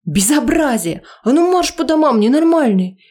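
high, loud indignant yell; angry scolding. Acted. Angry resident yelling at the partygoers, loud scolding. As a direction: scold them off the street.

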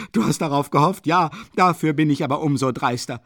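high, loud, agitated tirade; defiant ranting. A narrator's reading. Katerina threatening to run to the Tsar, defiant ranting. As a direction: insist fiercely, rising to a shout.

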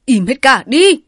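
loud, high despairing yell; husband yelling at both women to shut up; exasperated shout. A narrator's reading. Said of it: "Bài dậm chân kêu trời".

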